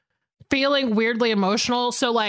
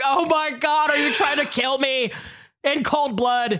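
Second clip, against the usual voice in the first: mock outcry; 2 semitones higher than usual. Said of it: "and you're just like".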